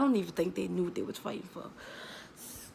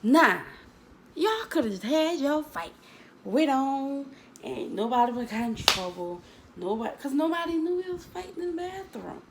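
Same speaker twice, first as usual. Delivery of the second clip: exasperated; 5 semitones higher, 3 dB louder than usual. Real, not acted. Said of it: "she made me mad".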